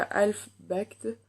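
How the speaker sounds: English shade name with a French accent. Real, not acted. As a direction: say "Half Baked" with an unsure French accent. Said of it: "mon super accent anglais". (anglais à l'accent français)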